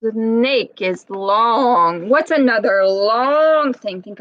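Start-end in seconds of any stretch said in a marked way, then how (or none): 0.0-2.1 very slow, hissing snake; a lightly hissed snake voice. Acted. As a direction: stretch it out like a slithering snake. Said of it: "Let's make that sound like a snake".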